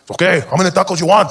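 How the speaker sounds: a hint of the street vendor; taco vendor. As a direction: take the order in a perky call. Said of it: "The guy comes to the window".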